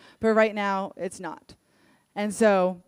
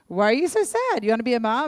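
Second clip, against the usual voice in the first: incredulous doctor; 3 semitones higher, 4 dB louder than usual. Retold or imitated. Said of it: "she's like".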